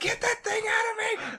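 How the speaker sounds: mock screaming, very high pitch. Retelling a mother's reaction during a birth: imitating someone screaming. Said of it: "She starts screaming".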